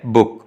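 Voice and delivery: बुक with a brief उ; short vowel. Shown as a demonstration. Teacher repeating the short-vowel example, brief बुक. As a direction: say बुक without lengthening the vowel. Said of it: "ये short vowel है".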